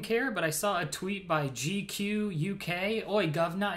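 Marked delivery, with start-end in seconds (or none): 3.1-3.7 hammed-up British "oi, governor"; badly faked British accent. Mocking a British magazine's name, hammed-up British accent. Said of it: "I can't do accents".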